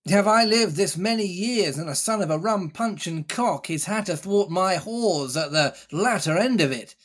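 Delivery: put-on roaring old pirate dare; lightly voiced defiant buccaneer; challenging pirate captain. Silver challenges the crew.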